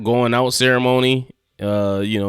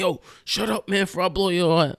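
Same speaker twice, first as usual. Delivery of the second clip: high-pitched, rushed robber's threat; mock threat; 8 semitones higher than usual. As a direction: imitate an exasperated gunman without shouting. Robber threatens screaming woman.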